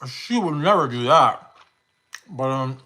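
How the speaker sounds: talking with mouth full; eating while talking, mouth full; wolfing down food. Real, not acted. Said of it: "I'm so sorry to be eating, guys, but I'm starving".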